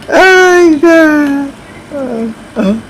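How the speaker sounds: high, laugh-filled exclamation. Real, not acted. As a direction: gasp it out through laughter, pitched high. Still laughing at dog comment.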